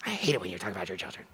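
low, soft mock-offended grumble; mock offended listener. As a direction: play a sulky offended listener. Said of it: "nobody sits there and goes".

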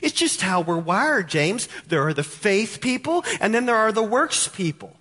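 light mock objector pleading with James; lightly voiced church member protesting to James; voicing a church objector. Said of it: "Their argument is".

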